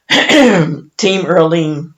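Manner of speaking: Team Earlene said very slowly, stretched out after clearing throat; emotional restart. Real, not acted. Speaker composing herself before naming her mother's group, slow and emotional. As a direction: take your time and say Team Earlene slowly, with feeling. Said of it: "I'm so sorry".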